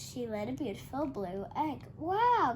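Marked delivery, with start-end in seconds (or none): 2.0-2.5 high, loud gasped wow. A narrator's reading. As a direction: gasp in amazement. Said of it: "gasped Rupert".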